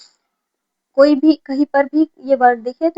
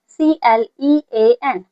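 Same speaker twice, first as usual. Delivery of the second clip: slow spelling; 5 dB louder, much slower than usual. Shown as a demonstration. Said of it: "देखो सी से क्या बनेगा?".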